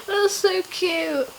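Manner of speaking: high, drawn-out cooing delight. Real, not acted. Reacting to her cute backwards laptop, delighted.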